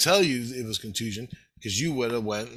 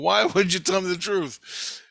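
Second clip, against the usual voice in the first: retold protest; 8 semitones higher than usual. Acts out his protest in retelling.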